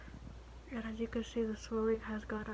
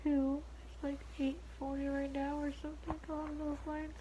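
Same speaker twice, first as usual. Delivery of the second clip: losing voice, sore throat; hoarse voice; 6 semitones higher than usual. Real, not acted. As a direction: rasp a little from mouth breathing. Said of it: "Kinda losing my voice".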